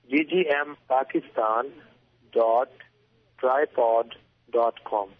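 slow, each letter spelled clearly; over enunciating. Shown as a demonstration. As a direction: spell it out slowly for listeners. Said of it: "say that one more time slowly".

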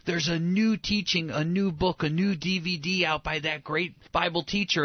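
imitating an enthused churchgoer; mock enamored gushing. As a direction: gush like a starstruck fan of new teaching. Acting enamored believers gushing.

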